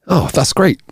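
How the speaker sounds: high-pitched mock exasperation; dismissive punchline. Joke punchline, man snaps at lady.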